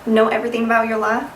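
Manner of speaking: light Southern accent, life said as laugh; testing a Southern accent. Shown as a demonstration. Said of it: "did I just go Southern?".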